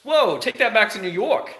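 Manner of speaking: very high-pitched protesting whoa; hammed-up startled objection; mock taken aback. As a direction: act affronted and send them packing. Acted shocked reply to rude driver.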